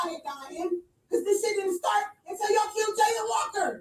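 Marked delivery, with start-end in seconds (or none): 1.1-3.8 yelling in fury; furious rant at police; angry shout. Real, not acted. Angry standoff at the door.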